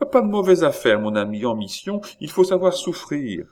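high-pitched urging; cried plea. A narrator's reading. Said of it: "cria Chon". (exhortation d'une voix aiguë)

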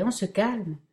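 "on" stressed, the rest falling, gently amused; mild chuckling tease, stress "on". Acted. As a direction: lean on "on" in "on se calme" and let it fall. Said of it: "se mit à rire Michael".

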